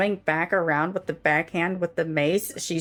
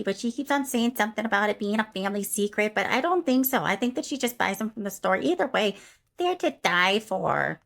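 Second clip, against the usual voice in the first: Karen voice; 3 semitones higher than usual. Acted. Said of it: "Karen will follow through and go".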